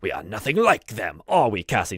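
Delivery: put-on firmer, prouder old butler; dignified insistence. Butler straightens his vest, proudly insistent. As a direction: draw yourself up and declare it. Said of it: "he straightens up on his, his back".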